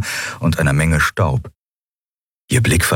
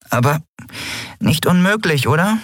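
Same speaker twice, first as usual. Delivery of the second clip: higher, light little creature voice; small fairy voice; 11 semitones higher than usual. A narrator's reading. Nelen muses about asking for help in a higher voice. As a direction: chirp it like a tiny flyer.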